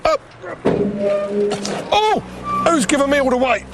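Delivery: straining under a heavy lift; lifting together. Real, not acted. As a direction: count it off while lifting.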